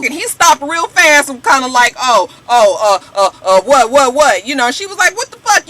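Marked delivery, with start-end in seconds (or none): 2.0-4.5 louder stammering backpedal; imitating Stevie J scrambling to back down; flustered stammer. Stevie J backs down fast. 5.2-5.7 much higher, louder outraged yell; imitating a woman yelling at Stevie J; mock yell.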